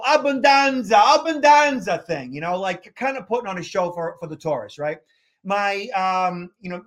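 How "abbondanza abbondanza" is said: put-on Italian accent. A maitre d' in Boston performing for tourists in a hammed Italian accent. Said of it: "so I can speak like this".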